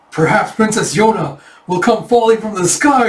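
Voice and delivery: lightly hammed-up daydream; dreamy. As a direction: muse like a lovestruck lord. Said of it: "It's like dreamy Taejun".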